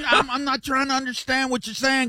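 street slang voice. Pretend. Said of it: "Now you sound like you're talking to us".

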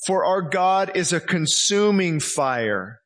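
slow, weighty scripture reading; solemn slow read; read slowly. Shown as a demonstration. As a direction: let each word land. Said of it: "Hebrews twelve".

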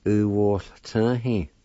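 "U Wol Chen He" said slowly and evenly; slow it down for the learners. Shown as a demonstration. Teacher repeating philosophy slowly for students. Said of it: "like this".

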